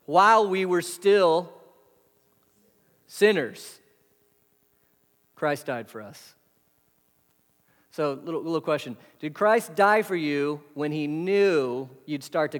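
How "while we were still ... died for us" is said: slow it down and let every word land; slow emphatic reading. Shown as a demonstration. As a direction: read the verse slowly, each word set apart. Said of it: "Next phrase is really important".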